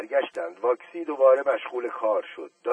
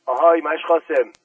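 calling out; 4 semitones higher, 10 dB louder than usual. Acted. Calling servant across the yard.

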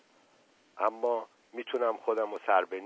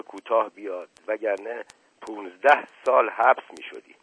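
acted anger. Asadollah scolding the injured man in mock anger. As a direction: berate him in a put-on rage. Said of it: "رول آدم عصبانی".

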